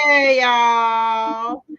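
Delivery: loud high laughing hello; excited greeting. Real, not acted. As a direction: call out with a laugh. Greeting mom in comments, laughing.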